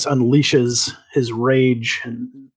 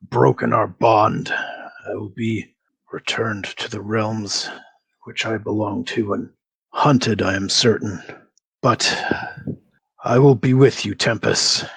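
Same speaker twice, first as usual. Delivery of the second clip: a fallen warrior swearing loyalty; grave vow from a beaten deity; defeated god; 2 semitones lower than usual. Acted. GM voices the defeated god Tempest.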